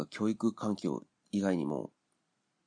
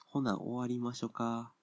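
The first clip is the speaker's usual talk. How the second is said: slower mock Kansai dialect; 3 semitones higher, slower than usual. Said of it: "関西弁で喋るって言ってるのも".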